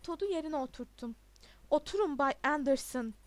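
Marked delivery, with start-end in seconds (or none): 1.7-3.1 loud, stern command; shouting. A narrator's reading. Headmaster orders a pupil to sit, shouting. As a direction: shout the pupil back into his seat. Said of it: "diye bağırdı".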